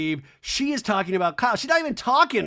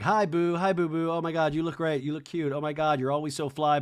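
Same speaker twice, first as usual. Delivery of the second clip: mock gushing. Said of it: "they do the, like".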